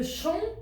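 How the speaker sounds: "champignon" in three beats: CHAM, PI, GNON; split into syllables. Shown as a demonstration. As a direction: pause after each syllable of "champignon". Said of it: "déjà quand je parle".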